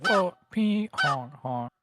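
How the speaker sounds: high, slow goofy honk chant; silly clown. Pretend. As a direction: stretch the whoa up high and slow. Chanting goose honks, second take.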